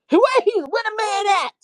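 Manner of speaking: high, loud demanding where he is; angry demand. Retold or imitated. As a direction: demand it angrily. Demanding the rival.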